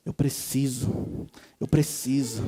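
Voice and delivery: low, soft, slow fake earnestness; pretend-contrite, hushed admission; mock hypocrisy. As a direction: feign solemn agreement, dragging it out. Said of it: "com a hipocrisia de ficar falando".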